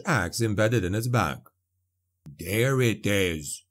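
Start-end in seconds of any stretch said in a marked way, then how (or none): 2.4-3.6 low, slow dwarf grunt. A narrator's reading. Dwarf spotting his axe in the zombie, low grunt. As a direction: grunt it out, unimpressed. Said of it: "the dwarf grunted".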